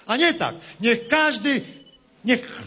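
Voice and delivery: lightly voiced rustic politician, rally style; a farmer-politician addressing the crowd, hammy; Lepper impression. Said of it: "jestem lepier". (parodia Leppera, lekko zagrana)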